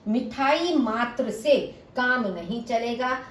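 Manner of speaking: slowed, मिठाई मात्र stressed. Shown as a demonstration. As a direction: lean on मिठाई. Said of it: "मिठाई के पर बल देने के लिए". (मिठाई पर बल देकर)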